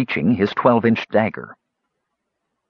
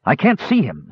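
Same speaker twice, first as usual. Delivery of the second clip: higher-pitched mild complaint; complaining; 4 semitones higher than usual. Acted. Knight hunting the floating king, mildly complaining. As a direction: complain in frustration, pitch lifted. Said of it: "Sturm complained".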